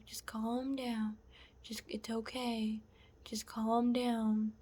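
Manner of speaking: slow, hushed imitation of soothing; mock-gentle, quiet reassurance; calm sweet voice. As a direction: soothe softly, drawing out the words. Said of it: "talking to me in this calm, sweet voice".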